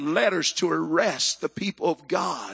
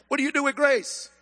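higher-pitched Mississippi accent imitation; 6 semitones higher than usual. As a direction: imitate a Mississippi diner's drawled question. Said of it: "They said it in a Mississippi accent".

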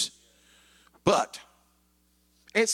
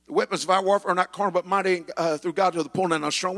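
quick reading; faster than usual. Shown as a demonstration. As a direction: rattle off the verse. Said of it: "It says".

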